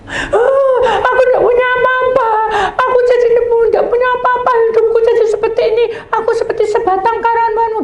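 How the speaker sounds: high, loud, sobbing through the words; crying woman's lament. Retold or imitated. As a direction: wail it like a woman who has lost everything. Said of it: "Saya cerita tuh". (ratapan sambil menangis tersedu-sedu)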